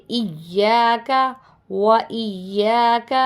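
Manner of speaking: ایاک with the y held firmly; firm doubled Y. Shown as a demonstration. Teacher showing students how to say ایاک firmly. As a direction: press hard on the doubled y in ایاک. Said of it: "سختی سے پڑھیں گے".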